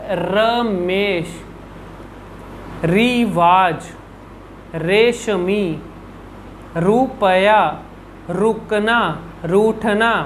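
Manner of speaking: रमेश, रिवाज, रेशमी stretched out slowly with a rolled र; slow r words demo. Shown as a demonstration. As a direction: read each र word slowly and clearly. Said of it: "वो हम कैसे बोलेंगे".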